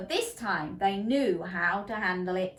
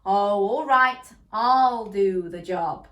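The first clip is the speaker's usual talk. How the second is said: slow, louder resigned sigh; sighing reluctantly; 8 dB louder, slower than usual. A narrator's reading. Mister Pig giving in, slow and sighing. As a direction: give in with a sigh. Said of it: "and sighed".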